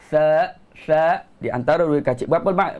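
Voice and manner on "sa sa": careful teacher demo of "Sa, sa", tongue between the teeth; articulated sa. Shown as a demonstration. Teacher shows students sa with tongue out between teeth. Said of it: "Kita kena keluarkan lidah".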